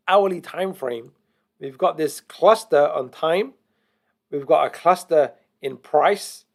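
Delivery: slow, spaced-out explaining; slow teaching pace with pauses between points; deliberately slow. Real, not acted. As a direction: take it slowly, phrase by phrase, so newcomers can follow. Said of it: "I'm talking slowly".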